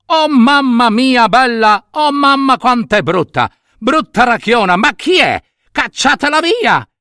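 strillo acuto del reuccio disgustato; grido inorridito. Acted. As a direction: grida scandalizzato, con voce molto alta. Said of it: "gridò". (grido acuto e capriccioso)

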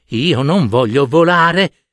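slow, mildly whiny chick refusing; reluctant little stork. Acted. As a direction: drag the words out like a stubborn chick. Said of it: "disse un cicognino".

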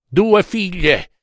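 put-on high, drawn-out drunken wail; outcry. A narrator's reading. Drunk professor protesting about his daughters, crying out. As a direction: cry it out high and slow. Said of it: "Alzò un braccio e gridò".

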